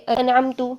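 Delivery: انعمتو said slowly, each vowel clear, ending on a rounded u; careful pronunciation. Shown as a demonstration. Tajweed teacher to students: انعمتو, slow, ending on u. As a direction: draw out انعمتو and close on a full u sound. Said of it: "میں نے انعام کیا".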